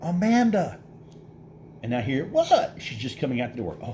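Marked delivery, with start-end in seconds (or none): 0.0-0.8 calling out. Retold or imitated. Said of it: "I yell 'cause the cop is yelling at us". 2.3-2.7 much higher, puzzled call from a distance; wife hearing her name called, answering in a higher voice; Amanda calling back. Retold or imitated. Amanda calls back from store.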